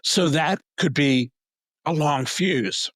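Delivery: hoarse, slow, fading voice; losing voice. Real, not acted. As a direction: voice giving out, strained. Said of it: "I'm losing my voice".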